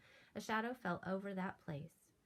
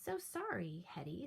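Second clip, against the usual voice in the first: sighing apology. Acted. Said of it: "said George with a sigh".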